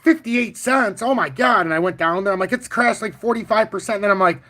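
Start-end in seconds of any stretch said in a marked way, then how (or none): 0.0-1.6 retelling a high, excited outburst; all excited. Retold or imitated. Telling the chat about spotting the stock, high and excited. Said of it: "I'm all excited". 2.5-4.0 excited. Retold or imitated. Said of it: "I'm all excited".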